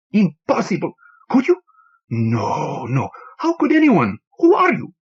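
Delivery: a grieving little man, voice climbing in disbelief; distraught bartender Antonio. Acted.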